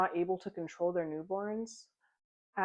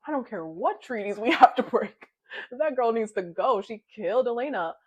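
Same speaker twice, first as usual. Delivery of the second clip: loud, higher furious yell at Julian; angry shout; 4 semitones higher, 8 dB louder than usual. Retold or imitated. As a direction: bark it out like an enraged sister. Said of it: "And Abba is like".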